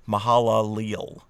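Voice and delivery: Mahalalel with each vowel pronounced; sounded-out Mahalalel. Shown as a demonstration. Teacher showing listeners how to say a Hebrew name, Mahalalel sounded out. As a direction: Mahalalel said syllable by syllable, vowels separate. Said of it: "go ahead and pronounce them".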